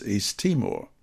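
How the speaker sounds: ordinary talk, nothing marked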